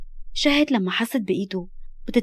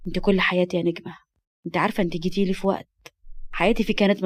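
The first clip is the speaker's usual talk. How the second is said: lightly lowered, calm loving voice; tender reassurance; 3 semitones lower than usual. Acted. Man promising never to abandon the girl, tender.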